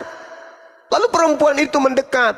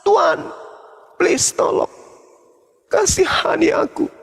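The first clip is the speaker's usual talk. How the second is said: high, half-shouted begging; begging cry; 5 semitones higher than usual. Retold or imitated.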